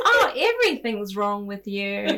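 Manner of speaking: mock your own harsh inner voice; nagging inner critic. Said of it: "your brain will come in and be like".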